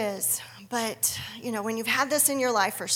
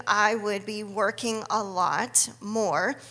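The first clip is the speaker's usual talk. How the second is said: ordinary delivery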